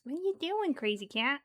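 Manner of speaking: high, swooping question to a cat; playful high-pitched pet talk. Real, not acted. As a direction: ask a pet in a high lilt.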